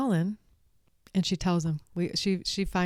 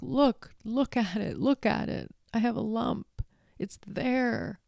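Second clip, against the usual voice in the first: higher mock-pleading whine; imitating fretful boy; 5 semitones higher than usual. Colin begging Mary to look, in a higher fretful voice. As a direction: act the scared boy showing his back. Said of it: "this thing happens between him and Mary".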